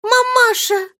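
put-on very high, loud little girl's call; small child answering her mother; little girl calling to her mother from the next room; child's voice. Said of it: "отвечал детский голос".

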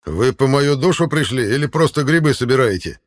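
sly, high creature voice; a cheeky forest gatekeeper; goat-legged gatekeeper. Acted. Goat-legged gatekeeper greets travellers.

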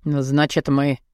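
low, lightly growled man's voice; Adam lightly growling his question; mild growl. Acted. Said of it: "зарычал Адам".

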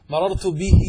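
مررت به with a long "ee" after the h; lengthened final ya. Shown as a demonstration. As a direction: say به as "bihii", loud and drawn out. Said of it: "عندنا هنا في النطق إيش؟".

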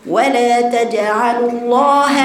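الله slow with a thin ه; light ha. Shown as a demonstration. Teacher correcting the heavy h, slowly. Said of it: "لأنك بتفخمي الهاء".

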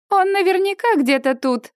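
bright, cheerful female voice; cheerful woman. A narrator's reading. Cheerful bride asking the crowd about the groom. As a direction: sound cheerful and sure. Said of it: "говорит весёлый женский голос".

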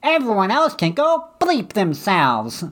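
prosperity preacher. Pretend. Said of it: "prosperity preacher".

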